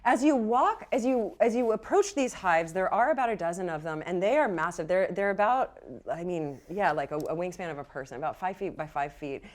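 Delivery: steady descriptive narration; game master scene setting. Acted. Game master sets the scene at the hives, calm narration. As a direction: paint the hives for the players.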